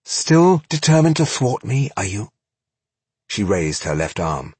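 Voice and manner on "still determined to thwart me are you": sneering villainess. Acted. Villain taunting the hero.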